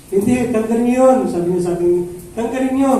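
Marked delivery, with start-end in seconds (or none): 0.1-1.2 higher, mock-angry guard's command; angry guard's order. Guard ordering the pastor to move the car, mock angry. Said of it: "Galit pa rin". 2.4-2.9 higher, mock-angry guard's command; angry guard's order. Guard ordering the pastor to move the car, mock angry. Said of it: "Galit pa rin".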